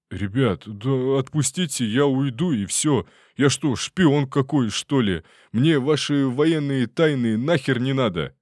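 high, loud whining plea; detainee begging. Acted. Detainee begs soldiers to release him, high whining. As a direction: beg to be let go, whining.

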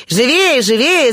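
high, excited mild shout; eager cry. A narrator's reading. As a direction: urge them on like eager young people. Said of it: "закричала вся молодёжь". (звонкий нетерпеливый выкрик)

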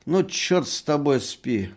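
high, loud drunken mockery; drunken taunting. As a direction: needle the snoring merchant like a drunk. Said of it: "говорил доктор пьяным голосом". (пьяная насмешка, высоко и громко)

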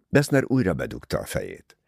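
usual speaking voice

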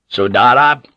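a sharp call across the column. A narrator's reading. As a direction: call his name out ahead. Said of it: "Toranaga called out".

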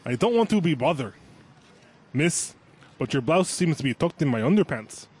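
careful mock Russian; retry it as a Russian; put-on Russian accent. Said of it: "you will be doing is Russian".

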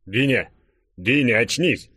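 urgent rousing call. A narrator's reading. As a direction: call an unconscious friend back to his senses. Friend trying to wake him. (настойчивый оклик, чтобы разбудить)

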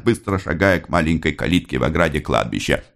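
ordinary delivery, nothing marked

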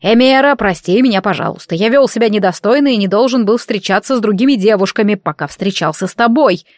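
grudging apology. Acted. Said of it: "ворчливо проговорил он".

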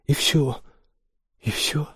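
high-pitched, mildly delighted question. A narrator's reading. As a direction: lift the voice with relief. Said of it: "обрадовался Олли".

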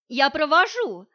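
too cheerful. Acted. Masha volunteers to see the mother out, too gleeful. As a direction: offer it far too happily. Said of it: "слишком радостно".

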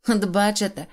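mild laughing shout. Acted. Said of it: "регочучи на все горло".

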